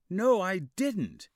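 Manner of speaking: loud, slow, high protest; insistent denial. A narrator's reading. Boy insisting to his doubting father, loud. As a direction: dig in and refuse.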